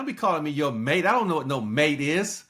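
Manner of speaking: mildly indignant retold comeback, swooping pitch; mock indignation. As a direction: act out putting a stranger in his place. Retold indignant reply to caller.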